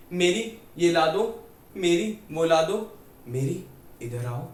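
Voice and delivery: "मेरी" said with a long ay vowel, as Hindi for "mine"; Mary mispronounced Meri. Retold or imitated. Father calling nurse Mary, "मेरी" mispronounced as "mine". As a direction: slowly call "मेरी" with an ay vowel instead of Mary's open ae. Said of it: "पापा उसको मेरी मेरी करके बुलाते थे".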